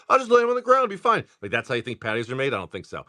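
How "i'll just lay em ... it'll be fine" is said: high, loud mocking voice of his wife. Mimicking his wife's lazy patio plan to chat, high and mocking. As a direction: parody her easygoing plan, pitched up.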